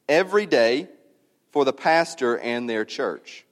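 measured reading with weighty pauses; deliberate, spaced-out pulpit reading; solemn reading aloud. Real, not acted. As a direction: read it to the congregation phrase by phrase. Reads a written prayer aloud.

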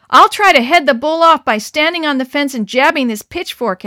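loud urgent call; urgent shout. Acted. Harry shouts his pitchfork plan to the boys, loud. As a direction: shout the plan over the noise.

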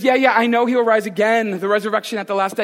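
dismissive yeah yeah. Retold or imitated. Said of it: "And so she says".

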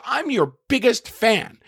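hammed-up adoring fan; mock gushing fan. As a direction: stretch it out like the adoring heckler. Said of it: "She goes".

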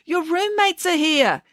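high, drawn-out call through a door; singsong, high-pitched yoo-hoo call; cheerful yell. A narrator's reading. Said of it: "Kate yelled through the door. She was trying to sound cheerful".

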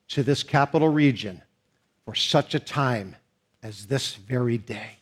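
soft, low, slowed preaching; quiet, reassuring close of the sermon; tender preaching. Acted. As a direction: bring the sermon down gently to a hush.

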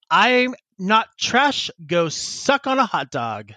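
slow mock-indignant declaration, starting high; defiant retort. Furry answers the whole lunchroom, hammed-up defiance. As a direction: proclaim the comeback to a whole room.

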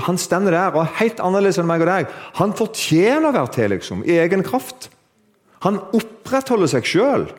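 high-pitched, emphatic sermon delivery; impassioned preaching. Real, not acted. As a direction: preach it with rising fervour. Preaches at full force.

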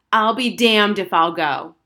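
loud, slow all-out yell. A narrator's reading. Girl yelling at her parents as loud as she can. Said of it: "she yelled as loud as she could".

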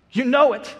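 short, loud, exasperated insistence; frustrated. Acted. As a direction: push it out high and loud in frustration. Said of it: "gets a little bit frustrated".

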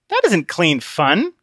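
slow flat repeat of Conscience; Christian echoing. Acted. Christian parroting Conscience, slow echo. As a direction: echo it back dully. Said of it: "like an echo".

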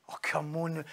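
muted, disappointed protest; weary reproach. Shown as a demonstration. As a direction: quietly chide someone who should know. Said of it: "See if you say it like that".

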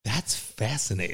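slow, soft, talking down; condescending. Shown as a demonstration. Trying phrases, a quiet condescending that's fascinating. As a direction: drawl it out quietly with disdain. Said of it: "you're talking down to me".

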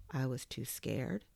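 a touch of shyness; timid confession. Acted. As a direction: confess it meekly. Toy timidly confesses fear.

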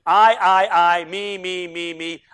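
loud first burst of repeated words, then easing; mock self-promoter. Preacher imitating a self-absorbed man he met, mocking chant. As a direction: rattle off the self-references in mockery. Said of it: "how many times he said".

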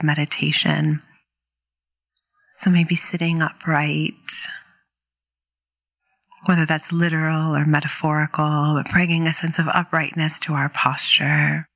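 calm meditation guide, unhurried with long pauses; guided meditation. Real, not acted. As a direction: gently lead listeners into stillness, leaving space between phrases.

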